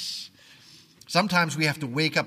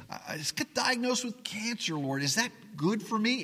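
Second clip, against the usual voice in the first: anguished believer's prayer; 7 semitones higher than usual. Acted. Praying sufferer voiced in sermon.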